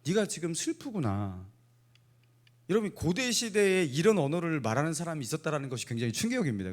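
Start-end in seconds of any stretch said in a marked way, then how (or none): 0.0-1.5 gentle empathy. Shown as a demonstration. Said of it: "이렇게 말하는 게 아니라".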